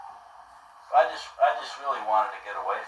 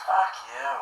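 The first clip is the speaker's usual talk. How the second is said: angry retort; much slower than usual. Retold or imitated. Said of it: "I got pissed".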